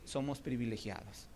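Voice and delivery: quiet, low "somos privilegiados"; soft. Shown as a demonstration. Preacher softly telling the church "privilegiados". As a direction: drop down on "privilegiados". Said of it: "repeated word, first soft".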